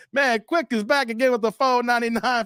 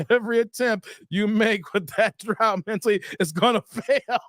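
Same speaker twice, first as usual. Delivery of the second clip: chuckles spilling into the words; barely holding it together on the last word; laughing while reading. Real, not acted. Streamer reads Zick's drought advice aloud, laughing.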